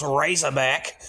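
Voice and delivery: Razorback in a hammed-up Australian accent; a poor mock Australian Razorback, rising at the end. Host jokingly renaming the film, mock Australian accent. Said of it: "my poor Australian accent".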